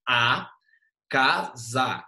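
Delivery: "A casa" split slowly into syllables; separating "casa" syllable by syllable. Shown as a demonstration. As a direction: break "A casa" into its parts, one beat each. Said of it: "Como é que separa a casa em ruínas gramaticalmente".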